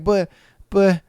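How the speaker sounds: building from stammer to a high, loud shout; hammed-up pleading guy rising to a yell; mock desperate plea. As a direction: beg like it's worth dying for. Friend voiced pleading for chance.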